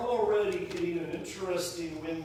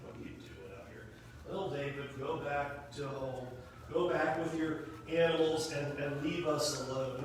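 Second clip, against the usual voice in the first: lower, quieter mock scolding of little David; chastising brother; 7 semitones lower, 5 dB quieter than usual. Older brother brushing off David in a low scolding mutter. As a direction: talk down to him like a kid brother. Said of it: "his older brother just chastising him".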